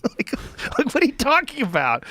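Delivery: high-pitched incredulous question; baffled squeal; exasperated disbelief. Pretend. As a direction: demand an answer from absent opponents, voice way up. Baffled at opponents' argument.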